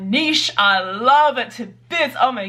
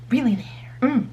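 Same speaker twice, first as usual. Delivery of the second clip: sarcastic; 3 semitones higher than usual. Acted. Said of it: "sarcastic characters".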